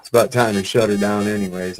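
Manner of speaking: glitchy robotic mic; warbled like a broken microphone; alien voice. Real, not acted. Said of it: "You sound like an alien".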